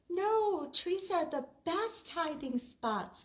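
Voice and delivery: high, loud eager protest; eager cry. Acted. Lulu insists to Oliver that trees are best, high and eager. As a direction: insist it excitedly. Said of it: "cried Lulu".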